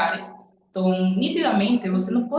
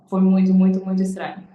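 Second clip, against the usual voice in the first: "muito, muito" punched much louder, then "muito estranho" dropping back; emphatic repetition; 6 dB louder than usual. Real, not acted. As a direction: hammer the first "muito" and let the last fall. ("muito, muito" bem mais alto e enfático)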